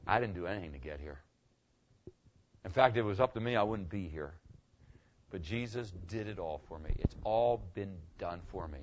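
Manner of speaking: low, soft, sincere answer; humble testimony. Acted. Tony explaining how he got to heaven, humble. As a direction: give the credit away quietly, low-pitched.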